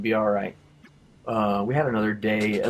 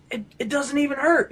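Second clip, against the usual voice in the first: mock teary disbelief, pitched way up; retold tearful amazement; 14 semitones higher than usual. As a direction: imitate a friend tearfully amazed the pain is gone. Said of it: "he's got tears coming out of his face".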